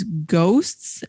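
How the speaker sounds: GHOSTS lifted into a questioning rise, as if in quotes; air-quoted. Real, not acted. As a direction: put audible quote marks round "ghosts" with an upward lilt. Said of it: "I'm air quoting ghosts".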